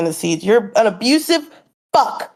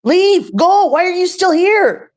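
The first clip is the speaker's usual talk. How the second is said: higher-pitched angry outburst; 6 semitones higher, slower than usual. Real, not acted. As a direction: drive him off, furious. Angry at him staying on stream.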